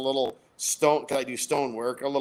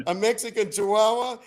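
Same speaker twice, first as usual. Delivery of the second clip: high-pitched disbelieving question; incredulous bartender; 7 semitones higher, 3 dB louder than usual. Acted. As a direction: mishear it and blurt it out amazed. Bartender mishears C and I.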